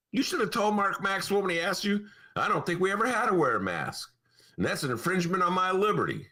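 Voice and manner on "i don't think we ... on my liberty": put-on Southern accent. Mocking Bailey's anti-mask answer in a Southern accent. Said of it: "I don't know where that accent's coming from".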